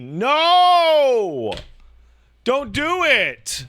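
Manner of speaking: loud, high shout, slowing on the second line; dad yelling at a trampoline stunt; alarmed yell. Retold or imitated. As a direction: stop the kid before he jumps.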